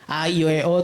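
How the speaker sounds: each vowel of "A, I, U, E, O" distinct; clear vowel articulation. Shown as a demonstration. Coach on singers' articulation practice, clear vowels. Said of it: "tuh harus jelas".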